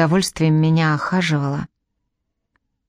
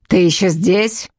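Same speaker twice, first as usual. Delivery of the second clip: shouted. A narrator's reading. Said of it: "гаркнула Багра".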